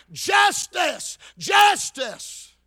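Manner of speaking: high, loud mock demand; preacher imitating a roadside cry; hollering. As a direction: holler it out like a protester. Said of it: "sitting on the roadside of hollering".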